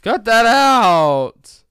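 stretched out yawning. Real, not acted. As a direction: drag it out in a yawn. Still yawning after remark.

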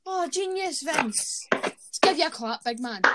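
mock-admiring, drawn-out congratulations; sarcastic praise. Real, not acted. Host mockingly congratulates the boss on his booking, sarcastic. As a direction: lay on the fake applause with a sting.

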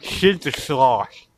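slow, lisped Shit to slosh with sh for s; mock lisp. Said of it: "His lisp makes it worse".

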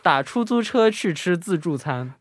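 slowed-down tongue twister; slowly, carefully. Shown as a demonstration. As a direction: spell it out slowly. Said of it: "slower repeat".

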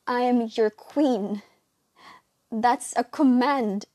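loud commanding queen; evil queen. Acted. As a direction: bark it as a royal order. Queen orders, voice raised.

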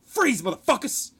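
high, loud commando yell; imitated challenge, shouted high; mock ambush shout. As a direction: burst in like a cop, acted out. Recruit acting out armed ambush shout.

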